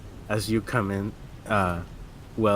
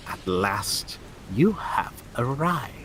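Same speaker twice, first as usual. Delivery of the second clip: put-on old hag. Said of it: "her voice crackles like dried weeds".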